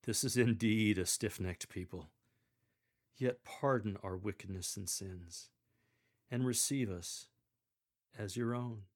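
broad, weighty scripture reading; grand finish. Shown as a demonstration. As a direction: proclaim it grandly to the congregation. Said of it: "We finish grandly with".

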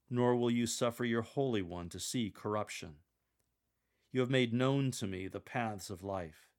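a smiling, slowed psalm reading with a joyful laugh. Shown as a demonstration. Lector demonstrating Peter quoting Psalm sixteen, smiling joy. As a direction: read the psalm with a broad smile. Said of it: "Smile broadly and have a countenance of joy".

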